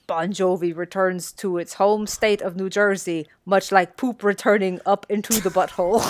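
badly faked Eastern European accent; a weak attempt at an Eastern European insult comic; Triumph's Eastern European accent. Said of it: "I will do my best to do the Eastern European accent. I'm very bad at this".

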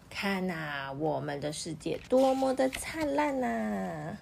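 slow, happy cheer as the magician. Acted. Magician cheering at his red world, slow and happy. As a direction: mildly cheer at the bright world. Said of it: "他欢呼说".

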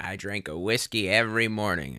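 a hint of a very old person, softly put on; lightly voiced centenarian. Centenarian telling the secret to long life, lightly imitated. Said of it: "someone who lived to, like, a hundred and fifteen".

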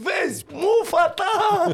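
high, loud mock shout, stretched slowly; Sebi yelling. Sebi yelling at the driver about his headset, mock shout. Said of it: "Și țipa Sebi".

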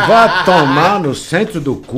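slow, loud curse through laughter; real laughing outburst. Real, not acted. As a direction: swear while cracking up.

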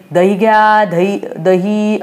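slow, drawn-out playful street cry; vendor's call. Pretend. Anu plays curd seller crawling around the house, drawn-out call.

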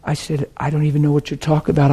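soft, confidential murmur; retold whisper. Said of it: "I just whispered".

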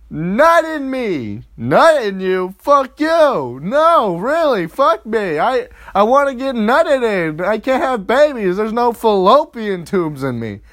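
high, loud mock girlfriend; excited demanding. Girlfriend urging her partner now she can't conceive, excited demanding. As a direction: insist at the top of a high voice.

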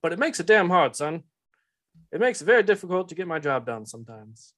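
put-on Southern-accented boss gently scolding; Telamon. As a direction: lecture him in a mild Southern accent. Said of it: "Southern accent".

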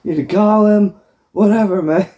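hammed-up insistence, rising with every line; demanding Eddie. Eddie demanding to see Hef, a high mock insistence. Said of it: "he starts demanding".

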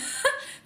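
a quick breathy giggle, high; light laugh. Real, not acted. Amused by her buzzer going off, a light laugh.

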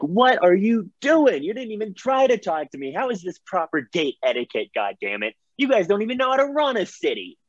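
indignant yelling. Acted. Adventurer shot at by gate guards, yelling indignantly. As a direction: berate them in an outraged rant. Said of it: "I'm yelling at them".

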